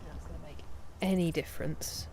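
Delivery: whispered aside to herself. Real, not acted. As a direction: drop to a breathy whisper, as if to herself. Muttering while fixing lights.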